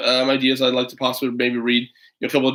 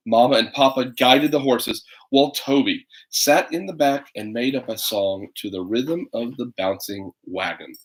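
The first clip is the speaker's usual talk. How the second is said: put-on unhurried storybook narration for little kids; reading to children; slower than usual. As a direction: read it like bedtime story time. Reads picture book to kids.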